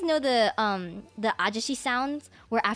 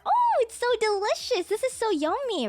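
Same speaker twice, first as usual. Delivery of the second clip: bland English praise; 9 semitones higher than usual. Retold or imitated.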